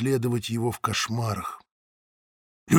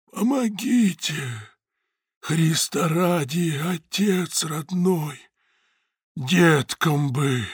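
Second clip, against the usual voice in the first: thin, drawn-out pleading whine; starving beggar's slow plea; begging starving woman; 3 semitones higher, 3 dB quieter, much slower than usual. A narrator's reading.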